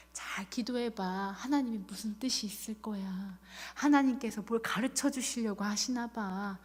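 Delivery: soft, low, near-whispered comfort; hushed consolation. Retold or imitated. Visitor consoling a hospitalized cancer patient, hushed. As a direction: imitate a well-meaning visitor speaking low and softly.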